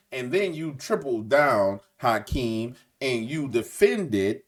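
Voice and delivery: slow, drawn-out oratory with heavy pauses; measured, portentous speech, stretching each phrase; imitating a politician's speech. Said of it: "this is how he talked".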